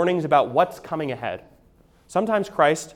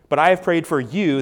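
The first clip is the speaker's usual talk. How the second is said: "you" leaned on, in a louder reading; stress on YOU; 3 semitones higher, 6 dB louder than usual. Shown as a demonstration. Jesus to Peter alone, stressing "you". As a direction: point the word "you" at one person. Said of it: "that's singular".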